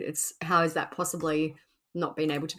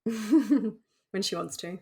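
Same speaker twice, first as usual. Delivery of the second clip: teasing drawl; 4 semitones higher, much slower than usual. Real, not acted. Teasing about the cat.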